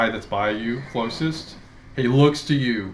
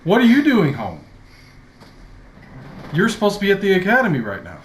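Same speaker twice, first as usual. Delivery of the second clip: high, loud, fast scolding servant; flustered old servant; 8 semitones higher, 5 dB louder, much faster than usual. Acted. Elderly dragonborn scolds the young master for being home, fussing. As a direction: fuss over him like an alarmed old butler. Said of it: "looks at you and says".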